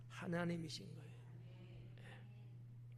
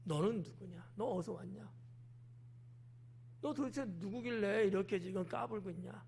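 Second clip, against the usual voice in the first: demanding interrogation; 4 dB quieter than usual. Retold or imitated. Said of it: "막 이렇게 따지는 거죠".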